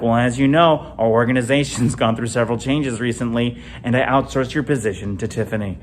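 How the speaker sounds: flat, formal HR layoff voice; mock corporate termination script; deadpan company-speak breaking the news. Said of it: "we're like".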